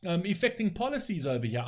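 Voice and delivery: shouting down the talking point; real furious shouting. Real, not acted. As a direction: blast it out in exasperation. Angry rant about Hunter Biden.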